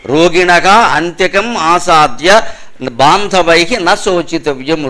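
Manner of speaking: slow, measured Sanskrit with stretched syllables; word-by-word verse recitation. Shown as a demonstration. Preacher breaks down the shloka for listeners, slow measured recitation. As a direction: recite it phrase by phrase for explanation.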